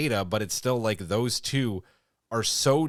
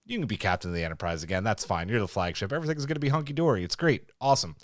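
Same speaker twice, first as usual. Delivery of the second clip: sarcastic Starfleet; 3 semitones lower, faster than usual. Retold or imitated. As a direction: brush her off breezily, dripping with sarcasm.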